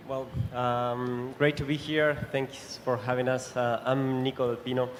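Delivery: normal talking voice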